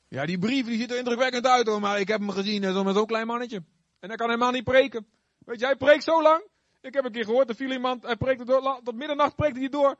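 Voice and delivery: high, gossiping mocker; gossipy critic voice. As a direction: dish the dirt like a gossip.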